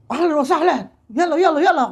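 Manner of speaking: mock Arab yelling. Preacher showing congregation how Arabs talk, mock yelling. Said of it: "Kan teriak-teriak sih orang Arab ngomong itu".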